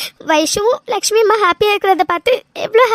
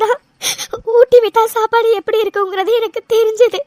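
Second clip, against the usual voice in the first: steady tearful voice, sniffling between phrases; a light weepy telling of missing her birth mother; crying. Acted. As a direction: keep the tears under every line. Cries through her story.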